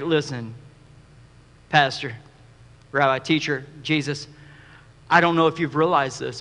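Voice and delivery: a disciple nudging the teacher to stop; pleading disciple. Retold or imitated.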